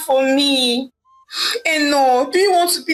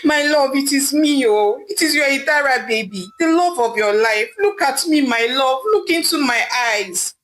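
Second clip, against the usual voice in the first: higher, pleading voice, words a little pushed; crying and pleading; 5 semitones higher than usual. Acted. Wife pleading with husband not to leave, crying. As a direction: beg him to look at you. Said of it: "crying and pleading with her husband".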